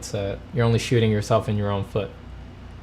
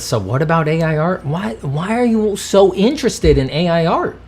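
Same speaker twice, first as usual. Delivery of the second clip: higher, lightly mocking whine; mocking chat voice; 6 semitones higher, 4 dB louder than usual. Mocking a chat viewer asking about AI art, lightly voiced whine. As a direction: parody the nagging chat question. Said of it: "Nara just says".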